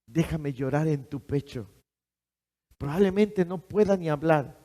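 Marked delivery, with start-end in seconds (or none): 0.1-1.7 soft, hushed plea to God; softer intimate prayer to the Lord; tender prayer. Pretend. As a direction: pray it gently, near tears.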